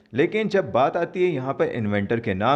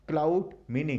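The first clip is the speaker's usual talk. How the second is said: slow motion. Shown as a demonstration. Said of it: "यहाँ पे हम लोग स्लो मोशन में बोल के देखते हैं".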